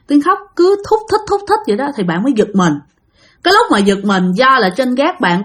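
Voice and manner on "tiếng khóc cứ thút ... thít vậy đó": mimicked whimpering. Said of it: "nghe tiếng khóc".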